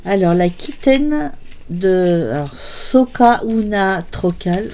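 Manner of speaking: reading the label in a playful, self-mocking Spanish accent; a light, hammed-up Spanish accent on the brand names. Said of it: "avec mon super accent espagnol".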